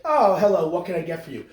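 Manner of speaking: mock-friendly shop voice; cheery pizzeria worker. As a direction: play the polite counter clerk.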